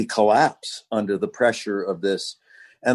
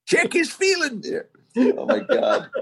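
put-on old Western voice. Playing an Old West bystander.

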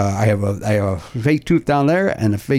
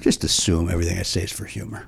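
soft unvoiced deadpan whisper; 7 semitones lower, 7 dB quieter than usual. Real, not acted. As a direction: breathe it out dryly.

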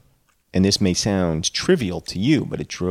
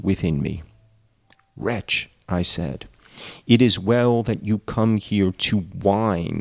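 story narration. A narrator's reading. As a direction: read the passage steadily. Reads novel aloud.

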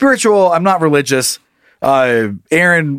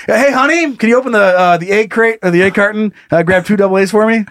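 imagined dad; 3 semitones higher than usual. Pretend. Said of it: "I picture your dad".

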